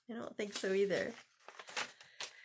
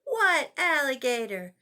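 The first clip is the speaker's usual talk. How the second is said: louder, surprised questioning; mother hearing something strange; mother puzzled at Zach's answer; 4 semitones higher, 8 dB louder than usual. Acted.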